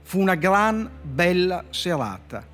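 measured storyteller reading with slow, deliberate endings; dry literary fable reading; story reading. Acted. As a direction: read the fable like a deadpan poet. Poet reads his fable aloud.

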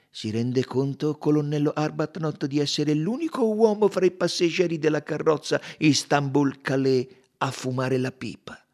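lightly voiced detective, pressing and emphatic; Poirot interroga. (Poirot incalzante, appena caratterizzato)

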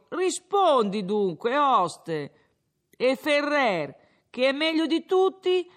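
put-on a drunk lecturing the innkeeper, pleased with himself; slurred tavern speech, rising as he goes; drunken Renzo.

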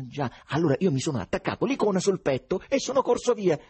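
acuto, concitato, sempre più forte; poeta infervorato. A narrator's reading. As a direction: racconta con foga, quasi delirante. Ivan racconta con foga. (infervorato, voce alta)

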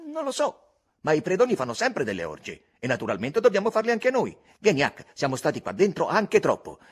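put-on loud, high, boyish scheming; a boy dreaming of being a robber; enthusiastic Tom. A narrator's reading. Tom to Huck about the cave: eager scheming.

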